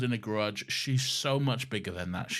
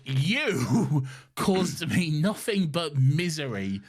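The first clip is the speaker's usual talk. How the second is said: mock bitter Martha; 3 semitones higher, 4 dB louder than usual. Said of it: "to be like".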